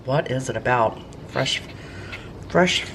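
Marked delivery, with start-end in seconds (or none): 2.5-2.8 excited. Real, not acted. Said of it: "I can't even talk".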